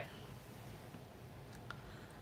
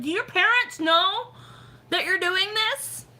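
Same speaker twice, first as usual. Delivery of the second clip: high-pitched, scandalised mom question; concerned mom; 11 semitones higher, 4 dB louder than usual. Acted. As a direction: voice climbs high in motherly disbelief. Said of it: "I'm just being a mom about it".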